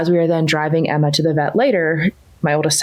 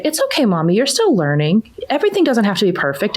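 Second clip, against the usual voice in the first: lightly voiced little girl, higher and gentle; little daughter's voice; 5 semitones higher than usual. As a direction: imitate a small daughter comforting her mom, pitched up. Mom voices young daughter.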